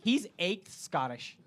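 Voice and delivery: lightly imitated American tourist; American accent, gently caricatured; mock American accent. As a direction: introduce a buddy in a mock American voice. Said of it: "And they're like".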